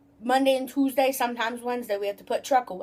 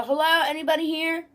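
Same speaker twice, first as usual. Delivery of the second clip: mild mock yell; 5 semitones higher than usual. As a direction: imitate a customer calling out for staff. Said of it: "the people that yell".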